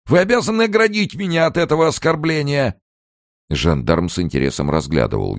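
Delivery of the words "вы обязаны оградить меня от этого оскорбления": shrill demand. A narrator's reading. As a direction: demand protection in a panic. Amers pleads with gendarme.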